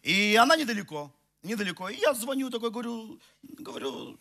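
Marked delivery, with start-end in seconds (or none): none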